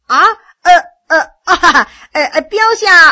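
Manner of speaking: flustered, stammering with a nervous laugh. Acted. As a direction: fumble for words in panic. Frightened officer stammers before commander.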